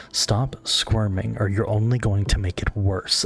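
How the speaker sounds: nurturing mother voice. Acted. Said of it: "slow, like, you know, almost nurturing mother voice say".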